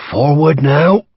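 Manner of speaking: high, pressing Irish command held back; urgent quiet order. Acted. Irish major hushing his men forward, urgent. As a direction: urge the men on without raising the voice. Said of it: "still spoke quietly".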